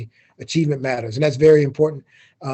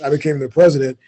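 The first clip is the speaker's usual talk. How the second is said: a hint of a grand presidential voice, a bit louder; deep president voice; 5 dB louder than usual. Shown as a demonstration. University president introducing himself to students, lightly deepened voice. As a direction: announce it like a proud university president. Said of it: "I have to say that with my deep president voice".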